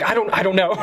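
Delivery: high-pitched flustered stammer; retold panic. Answering the Taco Bell employee, in mock panic. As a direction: imitate being flustered and helpless. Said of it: "I'm panicking".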